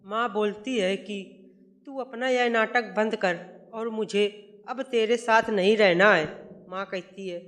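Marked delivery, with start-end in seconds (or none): 1.9-6.3 mother scolding, building louder to the end; furious mother turning on her son's wife; angry scolding. Acted. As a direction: tell her off, voice rising in anger. Mother scolds daughter-in-law in quarrel.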